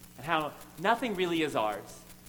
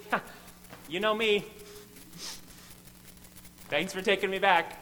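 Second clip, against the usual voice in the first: casual relaxed apology; 3 semitones higher than usual. Retold or imitated. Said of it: "now it sounds more like this".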